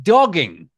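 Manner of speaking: extra-emphatic "dogging"; emphasis on "dogging". Real, not acted. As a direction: lean hard on the word "dogging". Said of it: "I put every extra emphasis on that".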